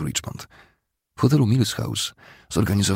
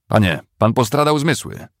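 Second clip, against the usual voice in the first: high, loud objection; raised, incredulous cry; alarmed protest; 7 semitones higher, 6 dB louder than usual. Acted. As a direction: protest loudly in disbelief. Prisoner protests at Cooper's attack.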